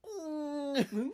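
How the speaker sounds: high, squeaky mock-guilty "mm"; awkward high hum. Imitating diner caught out by chef, awkward high hum. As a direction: squeeze out a tiny high hum.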